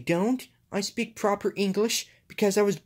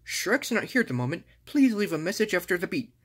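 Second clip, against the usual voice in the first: fake voicemail greeting; 3 semitones lower than usual. Shrek fakes his voicemail greeting.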